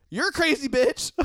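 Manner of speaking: fleeing the raging date, laughing in disbelief. Retold or imitated. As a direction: laugh it off and bolt.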